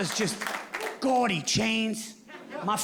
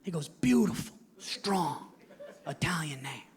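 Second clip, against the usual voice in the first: dad on the phone; 2 semitones higher than usual. Retold or imitated. Dad voiced congratulating.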